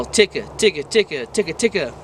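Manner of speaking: unhurried ticka ticka beats. Shown as a demonstration. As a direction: ease the ticka down, not as fast. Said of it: "not as fast".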